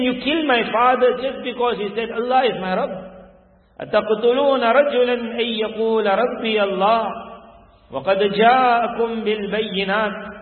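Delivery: mildly stern, imitating an accusing boy; stern imitation. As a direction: accuse the tyrant, rising into Arabic recitation. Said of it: "Then he's becoming stern".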